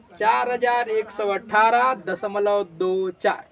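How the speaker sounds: slow, digit by digit after दशमलव; measured model reading. Shown as a demonstration. Teacher showing the class how to read a decimal, measured model reading. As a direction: read दो and चार as separate digits, slowly. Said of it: "इसको पढ़ना होगा".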